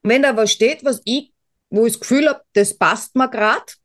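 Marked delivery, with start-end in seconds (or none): 2.5-3.8 slow phrase, weight landing on "grad"; stress on "grad". Real, not acted. Podcaster qualifying a horoscope, stress on "grad". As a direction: lean on "grad" at the end. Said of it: "mit Betonung auf gerade".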